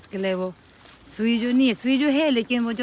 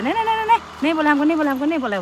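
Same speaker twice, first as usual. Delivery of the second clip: protesting; 5 semitones higher, faster than usual. Retold or imitated. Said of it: "मेरा पति बोले".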